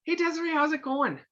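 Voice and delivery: genuine, attentive greeting; caring greeting. Shown as a demonstration. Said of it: "This is what I do now".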